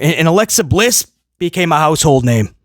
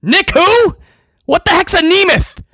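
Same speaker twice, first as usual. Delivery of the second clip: high, mocking wrestler voice; a brash wrestler shrugging off his real name; Zack Ryder persona; 10 semitones higher than usual. Playing Zack Ryder brushing off his real name, high and brash.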